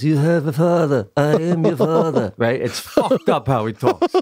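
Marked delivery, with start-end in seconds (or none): 0.0-2.3 mock British royal accent, lightly exaggerated; put-on British accent of a TV prince; The Crown prince's accent. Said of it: "he talks like this".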